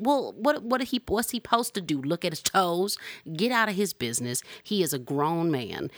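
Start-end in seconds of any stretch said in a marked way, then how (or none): 0.0-4.4 exasperated. Real, not acted. Exasperated rhetorical questions.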